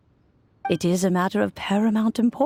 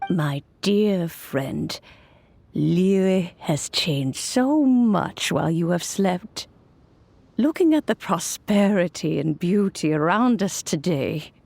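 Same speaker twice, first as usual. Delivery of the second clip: tender. Acted. Speaks softly to the sleeping Guoba.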